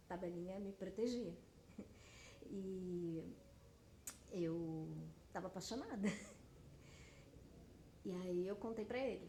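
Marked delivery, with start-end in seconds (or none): 1.4-2.4 quiet breathy chuckle; brief, soft laugh at yourself; real low chuckle, almost voiceless. Real, not acted. Laughs at her own naivety. 6.1-8.0 quiet breathy chuckle at yourself; real muted chuckle; soft laugh. Real, not acted. Amused at being in love.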